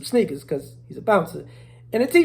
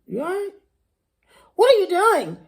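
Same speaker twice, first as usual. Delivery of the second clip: put-on nervous old lady; 10 semitones higher, 4 dB louder than usual.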